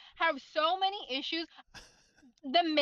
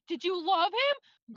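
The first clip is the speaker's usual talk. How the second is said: mock slow line; slower than usual. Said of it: "And then the whole".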